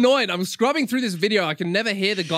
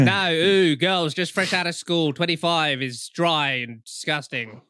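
Jimmy Savile impression; slower than usual. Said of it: "He's like".

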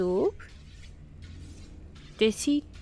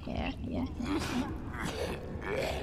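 whispering; 10 dB quieter than usual. Real, not acted. Sneaking, whispering to self.

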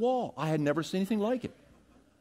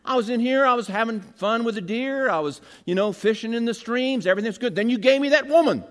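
Adam blaming God; 6 semitones higher, 6 dB louder than usual. Retold or imitated. Preacher voices Adam whining to God about the woman, higher and louder. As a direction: sound wronged and put out. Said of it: "He's saying".

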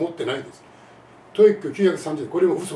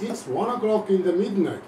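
English-like accent; much slower than usual. Shown as a demonstration. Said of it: "発音が全然日本語英語".

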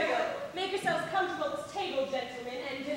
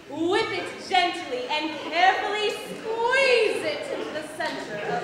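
suggestive; 2 semitones higher, 6 dB louder than usual. Acted. Seductive peach description.

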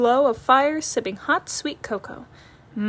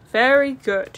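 whispered "Very good"; whispered praise; 2 semitones higher, 4 dB louder, slower than usual. Acted. Papa whispering praise to the sister cub. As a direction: breathe it out, just for her.

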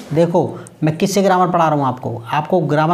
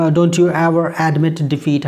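very slow, stretched English line; slow model sentence; much slower than usual. Shown as a demonstration. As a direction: draw it out so learners follow. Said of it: "teacher models English slowly".

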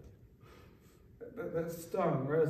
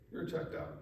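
"You're checked out" breathed as a whisper; whispered repeat; 8 dB quieter than usual. Shown as a demonstration. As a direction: let the repeat drop to a hushed whisper.

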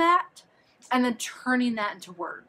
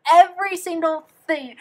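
louder and higher insisting; emphatic; 8 semitones higher, 8 dB louder than usual. Real, not acted. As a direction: hit "every single thing" hard. Emphatic summing up.

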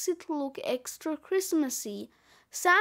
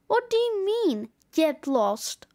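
put-on high, indignant child's question, dropping at the end; indignant echo; 3 semitones higher than usual. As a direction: start high in mild disbelief, then drop. Child indignantly echoes the snowman.

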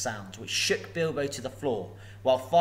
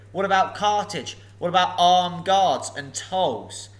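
mocking, louder dragon taunting the thief; 5 semitones higher, 6 dB louder than usual. Dragon Smaug taunting Bilbo, mocking and loud. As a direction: sneer down at the little burglar.

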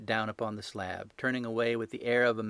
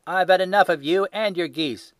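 furious shout, loud and higher; 8 semitones higher, 11 dB louder than usual. A narrator's reading. Salesman shouting at the little man over the geese. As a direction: bark it at the pest hanging round the stall. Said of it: "he shouted".

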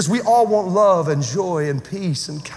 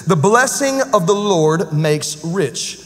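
slow scripture reading; 3 semitones lower, slower than usual. Acted.

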